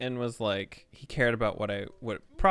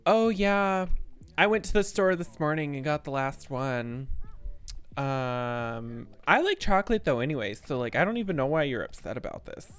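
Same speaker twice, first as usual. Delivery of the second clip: dismissive friend; 3 semitones higher than usual. Retold or imitated. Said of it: "the person is like".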